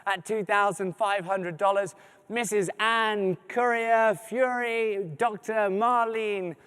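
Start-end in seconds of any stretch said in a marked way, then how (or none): 2.3-6.5 slipping into a French accent; a donor surname with an accidental French accent. Real, not acted. Host reading out a donor's name, slipping into French accent. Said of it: "flipping into a French accent".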